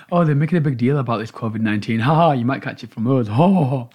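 lightly voiced posh royal, laughing it off; hint of a dismissive royal; royal impression. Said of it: "That's my shitty impression of a royal".

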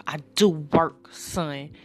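lightly put-on New York accent. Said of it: "There's a little fake, uh, New York accent there".

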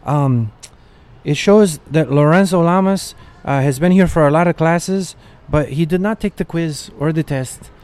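mock-concerned schoolteacher announcing to class; lightly voiced worried teacher. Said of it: "she was like".

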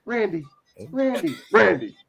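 high, breathy imitation of a singer. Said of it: "the singer probably used his real voice".

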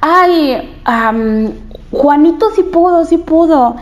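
high, cheering group praise. Retold or imitated. Classmates cheering the youngest boy, high and excited. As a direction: cheer the kid on, voice lifted high. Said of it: "y decían".

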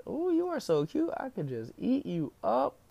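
put-on high gushing girl voice on "Ooh". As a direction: coo like a girl fawning over a cute kid. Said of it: "one of the girls said".

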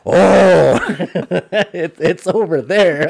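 high, loud, slow, giggly realization; high laughing client voice. Retold or imitated. Retold client finally sees the bull.

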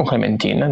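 put-on Clementine said the French way, ending in "-teen"; French-style pronunciation. Shown as a demonstration. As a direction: say Clementine with a long "ee" and a silent final e. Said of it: "dall'accento che gli si vuole dare".

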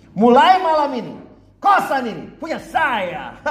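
crown yourself owner of the house; grand claim. Acted. Boarder claims the boarding house.

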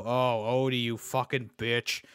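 low, slow cartoon-cat voice; Garfield. Cursing the dog as Garfield, deep slow drawl. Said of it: "slower tone".

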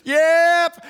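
sudden high shouted yep; loud eager yep. Retold or imitated. Buddy bidding on the cow, loud high yelp. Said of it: "He goes".

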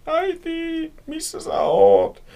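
very high, stretched-out call; high-pitched searching holler; calling for mother. A narrator's reading. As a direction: sing out the call, slow and rising in volume. Child calls out for missing mother.

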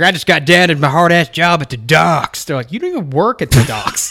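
put-on Boston accent, tough dockworker; fake Boston accent. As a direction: play a Boston dock guy. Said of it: "Why do you have a fake Boston accent right now?".

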